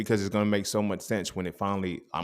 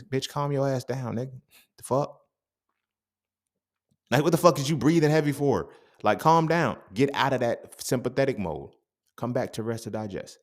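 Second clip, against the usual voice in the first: body scolding; 5 semitones higher than usual. Retold or imitated. The body speaking to him.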